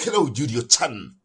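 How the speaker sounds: slow, drawn-out anime greeting; excited anime fan. Pretend. Anime-style greeting to cohost.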